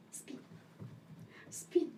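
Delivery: whispered cue; whispered command. Real, not acted. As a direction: breathe the command softly. Training the pet to spin.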